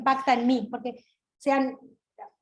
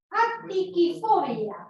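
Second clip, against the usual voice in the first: very slow, stretched-out delivery, higher pitched; drawn-out word presentation; 4 semitones higher, much slower than usual. Shown as a demonstration. Teacher unveiling a new word to the audience, slowly drawn out. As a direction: draw the unfamiliar word right out.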